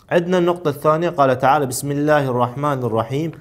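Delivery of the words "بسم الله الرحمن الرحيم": projected, measured scripture reading; Quran verse reading. Acted. Teacher reads the second exercise verse, Quran reading. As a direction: read the verse out firmly, stretching the long vowels.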